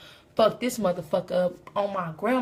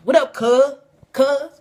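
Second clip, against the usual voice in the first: loud, higher gang greeting; loud greeting call; 3 semitones higher, 9 dB louder, slower than usual. Retold or imitated. Crips greeting the comic at the door, loud call. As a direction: call it out across the room. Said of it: "they were like".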